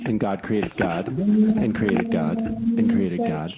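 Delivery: rising escalation. Acted. Building escalating repetition.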